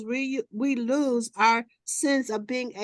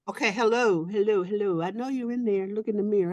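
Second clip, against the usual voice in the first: talking to reflection; 3 semitones lower than usual. Retold or imitated. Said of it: "I would go in the mirror and go".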